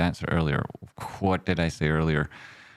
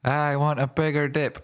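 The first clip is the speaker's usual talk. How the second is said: silly voice; 7 semitones higher than usual. Pretend.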